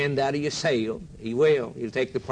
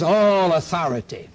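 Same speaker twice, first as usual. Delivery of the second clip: proclaiming loudly; 3 semitones higher, 5 dB louder than usual. Acted. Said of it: "He says".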